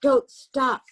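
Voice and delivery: loud, high shout while running; yelled urging. A narrator's reading. Henry yells at the boy he drags through the dark, loud urging shout. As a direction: urge him on, don't let him slow. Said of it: "would yell".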